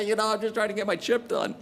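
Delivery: high-pitched flustered excuse; hammed-up nervous reply; shocked, stammering. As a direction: act out being caught off guard by the boss. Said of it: "Shocked and stammered".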